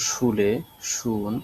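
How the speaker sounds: "শুলে, শুন" each starting with a hushing sh; palatal sh. Shown as a demonstration. Teacher giving examples of the sound, "শুলে, শুন" with initial sh. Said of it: "উচ্চারণটা হলো যে তালব্য স এর মতো".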